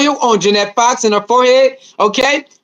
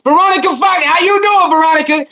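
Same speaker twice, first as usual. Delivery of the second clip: high greeting; 6 semitones higher than usual. Real, not acted. Greeting a viewer in chat.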